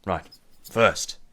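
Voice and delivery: lightly voiced boss with growing relish; scheming gang boss. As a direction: deal out the jobs, building to loud disgust.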